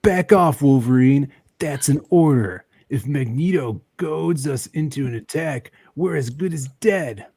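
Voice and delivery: loud, barked order to the team; commanding hero voice. Acted. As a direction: command your team, hammy. Reading Cyclops lines, commanding.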